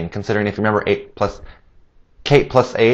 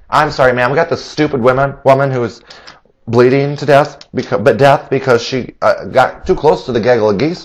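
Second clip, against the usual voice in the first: flustered pastor; 3 semitones higher than usual. Acted. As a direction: apologise and explain in a rush. Pastor back on phone.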